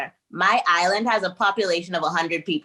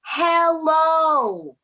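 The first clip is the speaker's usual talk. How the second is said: slow over-articulated hello; 6 semitones higher, much slower than usual. Retold or imitated. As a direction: spell it out as if to someone who speaks no English. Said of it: "they were like".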